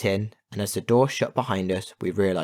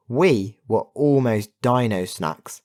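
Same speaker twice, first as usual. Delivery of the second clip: breathless relief; 3 semitones higher, 5 dB louder, slower than usual. Acted. Relieved girl after escape.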